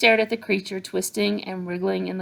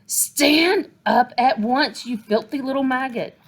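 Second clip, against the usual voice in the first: very slow, loud, higher roar; furious order; 5 semitones higher, 5 dB louder, slower than usual. A narrator's reading. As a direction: drag the order out in fury. Trunchbull yelling again.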